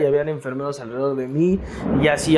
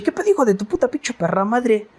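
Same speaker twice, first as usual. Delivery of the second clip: higher, rowdy swearing buddy; rough street guy cursing; 7 semitones higher than usual. Retold or imitated. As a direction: bark it like a foul-mouthed street friend. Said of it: "me dice".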